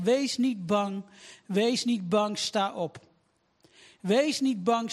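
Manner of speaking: earnest, emphatic prayer in repeated phrases; fervent prayer. Real, not acted. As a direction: pray aloud with insistent, measured phrasing, settling at the amen. Leads a prayer from the pulpit.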